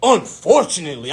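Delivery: "Unfortunately" thrown back indignantly; hot-headed. Retold or imitated. Applicant challenging the advisor's word, hot-headed. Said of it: "in my hot head stage".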